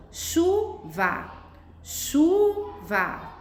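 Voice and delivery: "Chuva" com o chu alongado, forte e agudo, depois va; sílaba tônica destacada. Shown as a demonstration. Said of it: "Qual que eu falo com mais for". ("Chuva" silabada, com força no chu)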